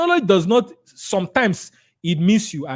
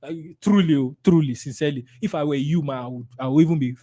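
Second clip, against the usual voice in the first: sympathetic agreement; 4 semitones lower, faster than usual. Shown as a demonstration. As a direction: confide that you share their worry. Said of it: "So you are standing with them".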